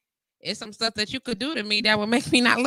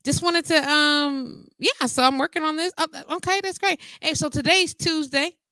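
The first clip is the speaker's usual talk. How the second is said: higher, sing-song fake-nice nudge; overly sweet reminder voice; 8 semitones higher than usual. Reminding a forgetful client it's Tuesday, high and sugary. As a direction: sweeten it up to remind him politely. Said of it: "And I'm like".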